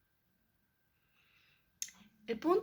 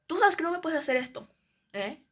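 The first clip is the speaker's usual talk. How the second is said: a mock scolding, louder and higher; retold angry warning, louder; imitating angry mom; 4 semitones higher, 4 dB louder than usual. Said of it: "literalmente se enojó".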